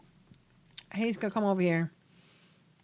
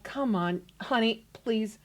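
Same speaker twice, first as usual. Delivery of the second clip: pleading; 7 dB quieter than usual. Acted. Wife calming ranting husband.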